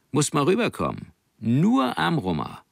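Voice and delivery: höher und langsam, freundlich einladend; leicht verstellter Soldat. Acted. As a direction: ein Seemann lockt gutmütig. Soldat lädt Nanning ein. (Soldat lädt den Jungen nach Flushing ein, leicht gespielt)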